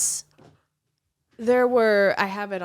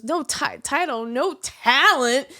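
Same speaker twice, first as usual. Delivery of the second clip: mild mock loud jab, slowed; retold loud jab; 3 semitones higher, 4 dB louder than usual. Boyfriend heckling the blank canvas, mock loud. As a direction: call it out like a heckler, half-hearted. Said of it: "really loud".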